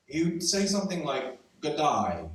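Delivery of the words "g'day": "g'day" drawn out slowly, as if thinking first; a careful, hesitant "g'day"; dad's hesitant g'day. Retold or imitated. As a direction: stretch "g'day" like he has to think before saying it. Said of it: "as if he had to think first before saying that".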